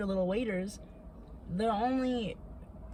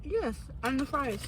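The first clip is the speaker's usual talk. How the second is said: talking while eating; mouth full; 5 semitones higher than usual. Real, not acted. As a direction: speak round a bite of food. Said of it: "This feels like a mukbang now".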